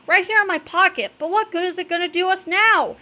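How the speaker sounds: frantic but not a full scream; panicked kid. A narrator's reading. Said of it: "screamed Cheeseball".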